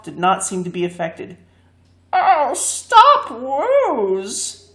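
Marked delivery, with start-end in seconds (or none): 2.1-4.7 high, loud yelp of alarm; crying out. A narrator's reading. Bungle crying out to the Woozy, high and loud. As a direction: yelp like a scorched cat. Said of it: "cried Bungle".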